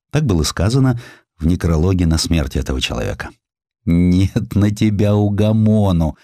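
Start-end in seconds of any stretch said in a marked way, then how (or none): 3.8-6.2 a slow, lightly voiced reproach; wife chiding her restless husband, understated; mild scolding. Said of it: "выговаривала ему жена". (мягкий упрёк, неторопливо)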